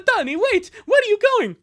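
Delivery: high, loud acted plea; calling after someone. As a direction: call out urgently to someone walking off.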